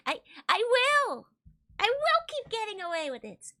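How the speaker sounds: loud, high mock-villain boast; defiant boast. Streamer loudly gloats to chat about getting away with it, mock villain. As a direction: shout it like a cheeky villain.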